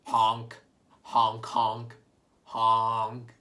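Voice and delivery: honking like a goose. Shown as a demonstration. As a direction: honk it out like a goose. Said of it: "let's all honk like a goose".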